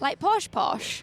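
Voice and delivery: put-on posh English, drawn out slowly; slow Queen's English imitation; posh English accent. Shown as a demonstration. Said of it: "spoke the proper Queen's English".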